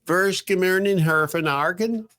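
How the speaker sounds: garbled, robotic line audio; alien voice. Real, not acted. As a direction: sounds like a glitching alien. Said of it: "he's an alien again".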